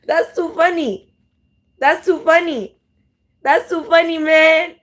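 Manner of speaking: amused. Real, not acted. Laughing at funny video.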